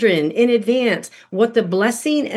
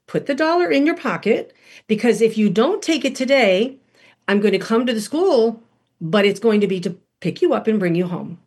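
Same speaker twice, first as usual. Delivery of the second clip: calm, no yelling. Retold or imitated. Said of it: "No yelling, no screaming, no condemning".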